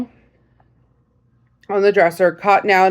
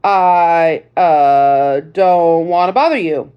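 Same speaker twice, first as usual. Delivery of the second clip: flustered; 3 semitones lower, 3 dB louder, much slower than usual. Acted. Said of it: "felt all flustered and tongue-tied".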